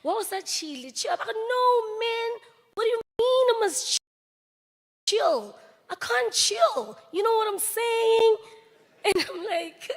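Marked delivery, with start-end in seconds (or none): 0.0-8.4 high loud protest, much higher pitched; mock protest up high and loud; exasperated. Daughter recalling protesting to Daddy, high and loud. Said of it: "I'm just asking myself".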